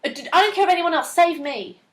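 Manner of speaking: loud, fast bratty whine; mock a spoiled girl screaming to be saved. Quoting the dub girl, loud bratty plea. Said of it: "they make her, like, this bratty, screaming, selfish person".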